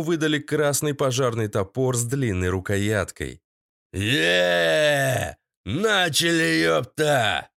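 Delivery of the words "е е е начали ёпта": boss whooping start. A narrator's reading. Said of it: "воскликнул Сыч".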